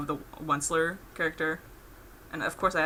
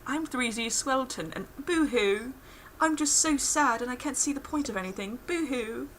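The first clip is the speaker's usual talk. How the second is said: mock mopey whine; 6 semitones higher, 3 dB quieter than usual. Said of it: "he refers to himself as the third person".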